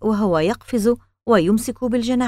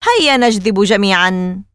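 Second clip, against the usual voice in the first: encouraging; 6 dB louder than usual. A narrator's reading. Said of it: "وقال ألان مشجعا".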